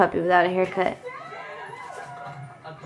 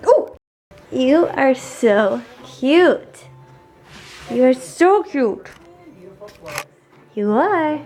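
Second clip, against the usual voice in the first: slow doting coo; much slower than usual. Real, not acted. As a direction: gush over the puppy slowly. Cooing at the puppy.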